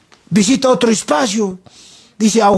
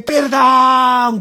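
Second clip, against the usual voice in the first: drawn-out cry for mercy, raised pitch; grito de súplica; 4 semitones higher than usual. Acted. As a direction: plead like the damned, mildly acted. (grito suplicante y alargado)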